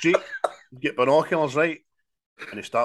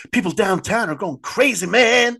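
higher, building to a loud man at the end; hammed-up street crowd voice, pitched up; imitating ghetto folk; 11 semitones higher, 6 dB louder than usual. Ghetto folk in the film warning about downtown, mock high voice. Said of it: "They're all like".

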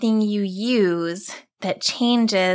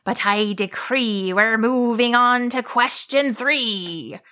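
monster growl. Acted. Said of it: "the monster growled".

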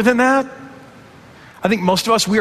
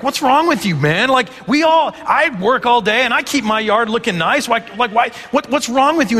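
mock exasperation; 6 semitones higher than usual. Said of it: "And you're like".

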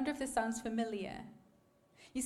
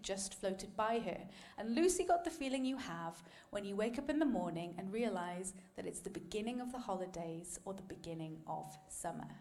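story reading. Acted. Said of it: "let me share a quick quote".

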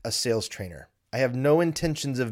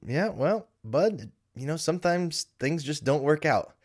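put-on higher, gently reassuring dad to a child; gentle consoling; 5 semitones higher than usual. Dad reassuring his six-year-old son about not being an astronaut, gently consoling in a higher voice. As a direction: soften it like easing a kid's disappointment.

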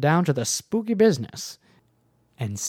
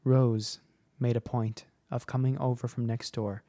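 measured, reflective storytelling with pauses; story narration; 4 dB quieter than usual. A narrator's reading. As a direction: read it as a listener's childhood memory. Reads a listener's story.

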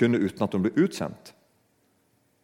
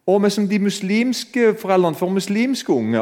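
mocking Ricky Gervais; 8 semitones higher than usual. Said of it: "han ler av alle religionene og sier".

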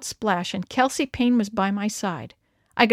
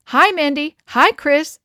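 higher, louder calls across the water; calling out; 5 semitones higher, 7 dB louder, slower than usual. A narrator's reading. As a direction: call out cheerily to the other canoe. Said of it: "they called out".

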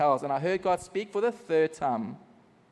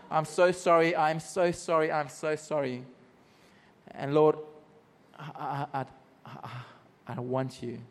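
fading broken prayer. Retold or imitated. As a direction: let the apology die away, stammering. Reenacting his broken prayer.

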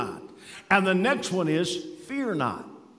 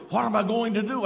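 raised-pitch mild imitation of panic; retold terror; 4 semitones higher, faster than usual. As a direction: voice a frightened woman's plea, lightly. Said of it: "in terror".

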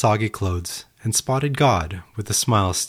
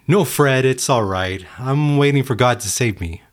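yelled back; 4 semitones higher than usual. Acted. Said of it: "The man yelled back".

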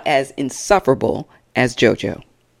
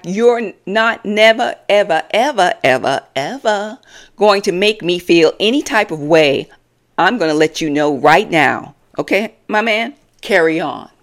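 mock clapback; 3 semitones higher than usual. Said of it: "Chyna clapped back".

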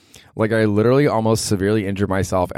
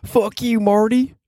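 Ozark catchphrase; much slower than usual. Shown as a demonstration. Showing how fun the Ozark line is to say, much higher. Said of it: "It's so fun to say".

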